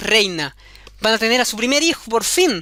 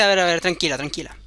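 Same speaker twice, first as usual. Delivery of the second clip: calming goblin; 6 semitones lower than usual. Acted. Goblin calms the crying girl.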